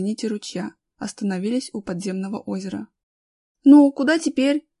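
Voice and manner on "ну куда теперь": high, loud, bewildered question; voiced woman's puzzlement; puzzled. A narrator's reading. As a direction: ask at a loss for the way. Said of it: "недоуменно спросила Галя".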